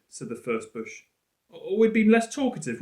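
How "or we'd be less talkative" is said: sarcastic retort. Acted. Sarcastic girl Con retorts.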